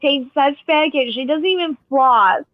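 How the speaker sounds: imitating her jealous sister, indignant. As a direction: mimic the sister's outraged whine. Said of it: "My sister's like".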